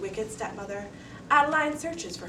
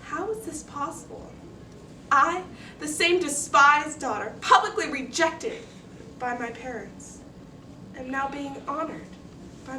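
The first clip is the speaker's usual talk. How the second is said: put-on high child voice, swelling louder; incredulous young girl; 6 semitones higher, 6 dB louder than usual. Girl marvelling at classmates honouring her, high and incredulous. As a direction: wonder aloud, building to hurt emphasis. Girl's amazed, wounded thought.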